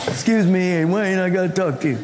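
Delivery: fast, pushy knocking-at-the-door plea; a hint of a pestering roommate, hurried; insistent roommate. Roommate at midnight pestering Wayne to talk, fast insistent plea.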